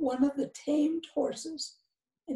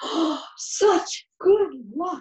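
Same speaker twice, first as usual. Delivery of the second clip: slow, raised exclamation, cried out; 2 semitones higher, 5 dB louder than usual. Narrator reads the neighbors' words to the farmer, cried out. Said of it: "cried the neighbors".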